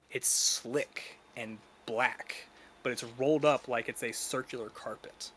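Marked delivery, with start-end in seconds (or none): 0.1-2.4 slow, whispered creepy detail; eerie whisper. Acted. GM describes alien object.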